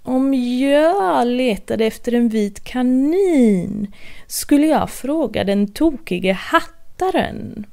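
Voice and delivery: grinning cat. Acted. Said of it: "en grinande Cheshire-katt ... sa".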